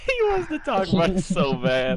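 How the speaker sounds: laughing, high teasing voice. Real, not acted. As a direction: tease him through a laugh.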